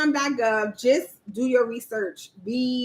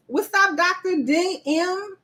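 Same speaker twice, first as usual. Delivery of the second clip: high, slow, stretched-out hello; odd drawn-out greeting; 6 semitones higher than usual. Real, not acted. Host greets a viewer in a drawn-out sing-song voice. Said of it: "I don't know why I said it like that".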